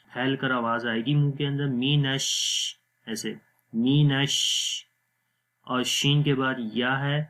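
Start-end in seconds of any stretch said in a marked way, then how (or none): 1.7-4.4 مِنْ شَ with نش blended, nasal n merging into sh. Shown as a demonstration. Teacher shows the child how to join n and sh. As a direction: glide the n straight into a spreading sh in نش. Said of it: "شین کی آواز منہ کے اندر پھیل جائے گی".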